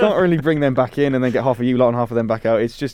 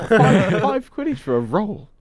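incredulous; 8 semitones higher, much slower than usual. Real, not acted. Outraged at the price.

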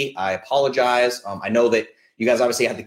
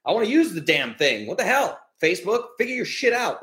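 frustrated rant; 4 semitones higher than usual. Retold or imitated. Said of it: "was like".

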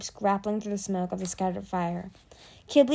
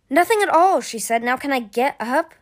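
nervous high voice; 5 semitones higher, 6 dB louder than usual. Acted. Pinned dragon, high anxious voice.

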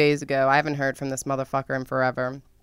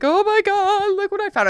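excited shock. Retold or imitated. Calling dad about discovery.

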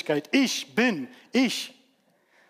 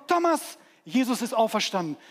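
excited disciples; 5 semitones higher than usual. Acted. Disciples tell Thomas the news.

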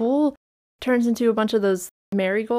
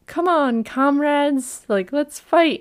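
higher-pitched mock rallying cry; rallying pig; 6 semitones higher, slower than usual. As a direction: lightly act a pig urging comrades to fight. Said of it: "there's a pig, and it goes".

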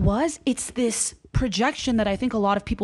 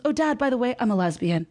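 nonchalant; 3 semitones higher than usual. Retold or imitated. Movie daughter tells Dad before the wedding, nonchalant. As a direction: toss it off casually, as an afterthought. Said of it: "Like, so nonchalant".

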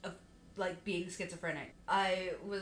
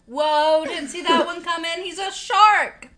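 loud, high fake astonishment; mock surprise; 10 semitones higher, 16 dB louder, slower than usual. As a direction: gasp it like a shocking twist.

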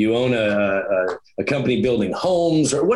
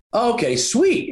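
mock delighted friend; 11 semitones higher than usual. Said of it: "And he's like".

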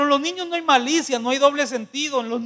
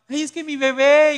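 loud, higher fond gushing; doting mother mock; 3 semitones higher, 6 dB louder than usual. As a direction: gush like a mother spoiling her grown son. (el predicador imita a una madre consentidora, empalagosa y fuerte)

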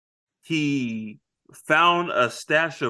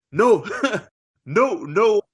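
lightly voiced menacing pirates; pirate crew; 7 semitones higher than usual. Pirates swearing to spill Will's blood, half-shouted. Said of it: "this time they're like".

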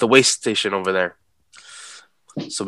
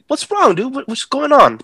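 retold alarm. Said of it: "I look at him like".

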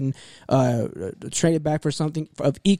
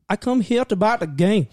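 put-on customer's Asian accent, pitched up; imitated Asian accent; 5 semitones higher than usual. Customer at the GameStop register asking for a game, mock Asian accent. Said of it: "I make the accent pretty well".

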